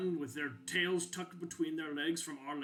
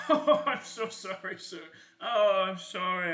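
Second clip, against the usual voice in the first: laughing apology; 4 semitones higher, 7 dB louder than usual. Acted. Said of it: "I shouldn't be laughing".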